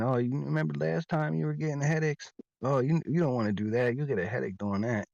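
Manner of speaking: a hint of a fake-caring stepdad; imitating stepdad. Stepdad hinting at my headaches, lightly mock-concerned. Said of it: "I get my stepdad saying".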